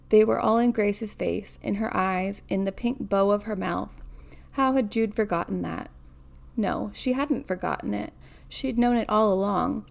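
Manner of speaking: measured read-aloud narration; story narration. A narrator's reading. Reader telling of a granddaughter by the bed, story narration. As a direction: read the novel out evenly.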